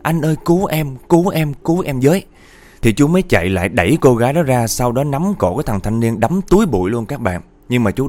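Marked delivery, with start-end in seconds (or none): 0.0-2.2 high pleading, not shouted; lightly acted plea for help; mock cry for help. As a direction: voice a girl calling for rescue. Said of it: "Cô mới hét lên".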